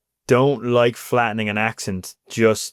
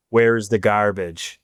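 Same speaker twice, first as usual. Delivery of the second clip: very slow, carefully flattened Irish accent; slow, enunciated; much slower than usual. Shown as a demonstration. Newcomer trying to sound clear to Canadians, slow and enunciated. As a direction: draw each word out to be understood. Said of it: "I would slow down".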